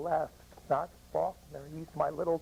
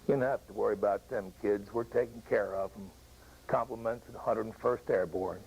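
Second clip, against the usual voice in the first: a lower, deeper stranger's voice, lightly done; 6 semitones lower than usual. Retold or imitated. Paratrooper reassures the crying veteran, lightly deeper voice. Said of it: "this deep voice goes".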